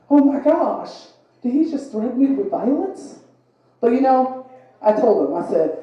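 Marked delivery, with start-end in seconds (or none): 0.1-3.2 shocked. Retold or imitated. Shocked by threat.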